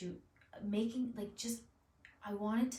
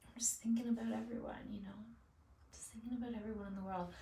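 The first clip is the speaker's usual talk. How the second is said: getting emotional; 3 semitones higher, faster than usual. Real, not acted. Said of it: "Oh, I'm getting so emotional".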